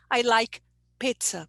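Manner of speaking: "pizza" with a short first vowel; learner's vowel error. Shown as a demonstration. Teacher quoting a student, shortened vowel. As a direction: say "pizza" as "pit-sa". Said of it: "really is the short E".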